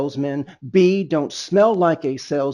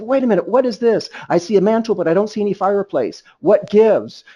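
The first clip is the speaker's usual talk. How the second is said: higher and quick, a playful double take; mock surprise; 4 semitones higher, faster than usual. To the couple about the missing fireplace, playful surprise. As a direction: tease them like you just spotted something odd. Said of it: "I said".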